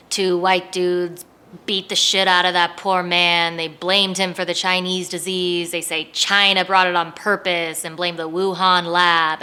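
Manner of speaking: loud, indignant retelling. Real, not acted. Telling what happened to Missus Lee's son, indignant. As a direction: punch it out, outraged for the victim.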